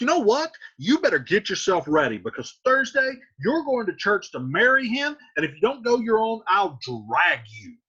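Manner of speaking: angry threat. Retold or imitated. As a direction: threaten her sharply. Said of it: "He's like".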